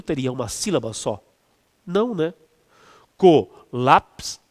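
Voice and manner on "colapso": "Colapso" drawn out slowly, co-lap-so, louder; slow syllable-count demo of "Colapso". Shown as a demonstration. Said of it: "São três sílabas".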